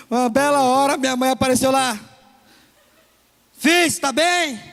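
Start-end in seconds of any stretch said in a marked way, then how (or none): 3.6-4.6 worried mother. Retold or imitated. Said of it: "mother peers into hole".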